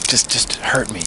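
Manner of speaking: put-on drunk breathy plea; whisper. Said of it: "she was like".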